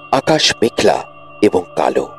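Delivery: plain reading voice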